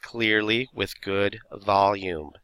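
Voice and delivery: clearly, with good volume, stretched out slowly; slow and deliberate. Shown as a demonstration. Teacher to class, stressing how to read, slowly. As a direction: lean on clearly, each word slow and spaced. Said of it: "making sure you're saying every single word".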